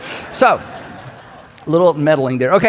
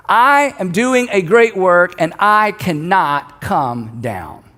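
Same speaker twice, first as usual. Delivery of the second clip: solemn declaration; slower than usual. Acted. Nehemiah gives his message from the wall, slow solemn declaration. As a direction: proclaim it word by word, sinking on the last word. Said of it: "Here's the message".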